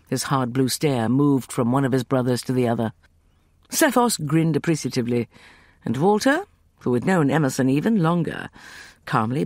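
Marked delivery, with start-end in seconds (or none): none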